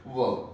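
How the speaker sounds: वर्ब said short and low as a model word; correct pronunciation. Shown as a demonstration. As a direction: give वर्ब as one clipped, falling syllable. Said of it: "इसकी correct pronunciation क्या होगी".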